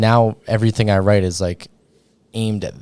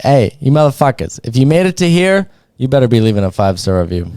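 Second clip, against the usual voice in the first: put-on louder, playful Boston accent; 4 semitones higher, 5 dB louder, faster than usual. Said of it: "A little bit".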